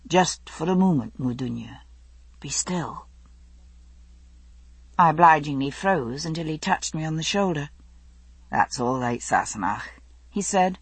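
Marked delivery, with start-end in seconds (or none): 0.1-3.1 soft. A narrator's reading. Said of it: "Jamie's voice came softly". 8.5-9.8 smiling voice. A narrator's reading. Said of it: "with a smile in his voice".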